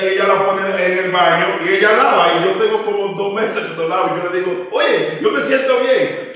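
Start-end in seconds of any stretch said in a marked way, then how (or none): 4.7-6.3 slow shout; mock shout. Preacher tells wife he feels fine, in a slow playful shout.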